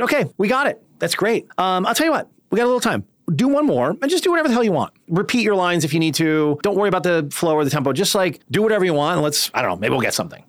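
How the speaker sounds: high-pitched, quick, breezy director talk; casual director reassurance. Retold or imitated. Director to actress after a take, casually reassuring. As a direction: toss it off lightly, putting the actress at ease.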